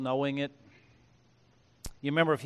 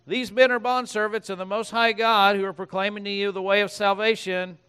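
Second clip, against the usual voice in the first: put-on high, loud, grating Valley Girl voice; annoying Valley Girl; 5 semitones higher, 7 dB louder than usual. Preacher voices the crying slave girl, annoying Valley Girl voice. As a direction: play her as the most annoying voice ever. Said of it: "kinda like that Valley Girl on Spotify".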